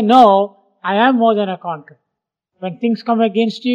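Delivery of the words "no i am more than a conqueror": a loud, firm "No", then I am more than a conqueror said fast; firm declaration. Shown as a demonstration. Preacher showing the flock how to answer fear, a firm declaration. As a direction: declare it like you mean it. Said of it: "renew your mind and say".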